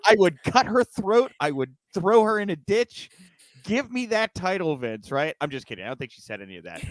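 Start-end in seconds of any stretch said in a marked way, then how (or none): 0.1-5.1 hammed-up cutthroat plea, pitched up; mock conniving. Host pretending to be Peyton begging Vince for title, mock ruthless. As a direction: play a ruthless schemer, dropping on the final name. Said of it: "she was real conniving about it".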